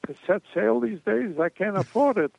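put-on Jewish pirate in a Yiddish accent; lightly voiced Yiddish accent. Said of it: "with a Jewish accent".

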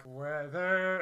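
stretched word, imitating the show; drawn-out catchword. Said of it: "I go, like".

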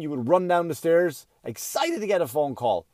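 usual speaking voice

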